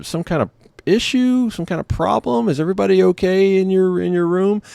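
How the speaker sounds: high, drawn-out imitation of an awkward caller; hesitant lady operator. Operator awkwardly reporting a problem to guests, imitated hesitant lady. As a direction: stall on the ums in a high woman's voice. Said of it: "And the lady's like".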